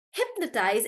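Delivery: hypnotize with HYP stressed; stress on HIP. Shown as a demonstration. Teacher introducing hypnotize, first syllable stressed. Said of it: "it's actually on hip".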